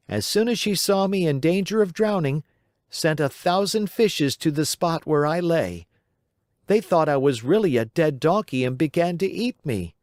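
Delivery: put-on a cheerful wooden boy telling his tale; Pinocchio's voice.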